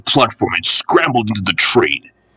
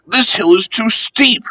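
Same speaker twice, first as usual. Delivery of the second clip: grumbling; 11 semitones higher than usual. Acted. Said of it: "grumbled the coaches".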